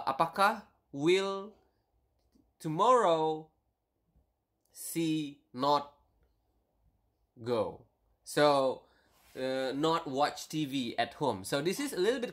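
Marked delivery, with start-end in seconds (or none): 0.0-7.8 slow word-by-word gloss. Shown as a demonstration. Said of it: "So here you are saying".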